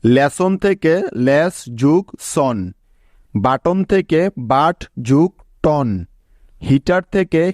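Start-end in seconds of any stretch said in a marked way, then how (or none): 1.3-2.6 লেস and সন set apart around যোগ; syllable-by-syllable লেস যোগ সন; split into syllables. Shown as a demonstration. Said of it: "ঠিক একইভাবে". 4.5-5.9 বাট and টন set apart around যোগ; syllable-by-syllable বাট যোগ টন; split into syllables. Shown as a demonstration. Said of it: "ঠিক একইভাবে".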